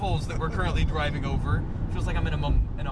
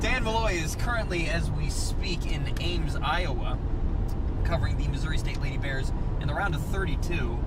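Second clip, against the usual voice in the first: reporter voice. Real, not acted. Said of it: "I'm already going back into the reporter voice".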